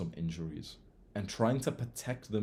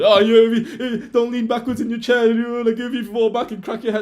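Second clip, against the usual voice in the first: very high, loud nagging whine; shrill mock of a fussy teacher; hammed-up nagging teacher; 12 semitones higher, 14 dB louder than usual. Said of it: "the fucking dumbass teacher was".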